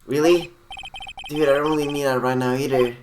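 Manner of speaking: breezy surfer-dude celebrity. Acted. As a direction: play the easygoing celebrity dude. Engard voiced.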